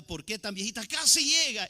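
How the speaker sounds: mimicked mourners' cry. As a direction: play the mourners wailing over the old sister. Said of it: "Allá con la hermanita era".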